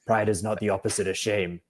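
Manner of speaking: lightly voiced wise old uncle; a hint of a calm old sage; Uncle Iroh wise voice. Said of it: "wise old man voice".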